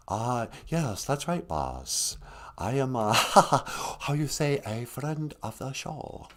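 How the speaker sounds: soft, slow mock Chinese accent for the puppet; lightly put-on Chinese accent, quiet; hint of a stereotyped Chinese accent; stereotypical Chinese accent. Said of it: "he's got a certain stereotypical accent".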